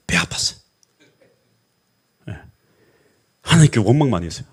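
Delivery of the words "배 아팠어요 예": hushed whisper, barely voiced; whispered confession. Real, not acted. Pastor confessing his envy to the congregation, whispering. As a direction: let the admission slip out in a whisper.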